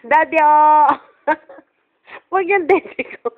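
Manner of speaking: giggling while calling daddy. Real, not acted. Calls daddy, laughing at baby.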